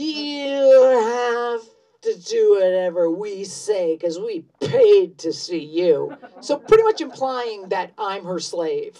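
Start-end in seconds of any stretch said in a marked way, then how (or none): 0.0-6.2 put-on loud, slow drunk yell with you drawn out. Retelling a heckler's demand from the crowd: imitating a drunk heckler. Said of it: "typical freaking, like, drunk".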